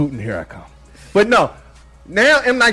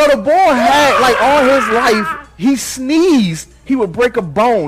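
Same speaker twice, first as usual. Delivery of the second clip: excited; 8 semitones higher, 3 dB louder, slower than usual. Real, not acted. Hyped retelling of fragile character.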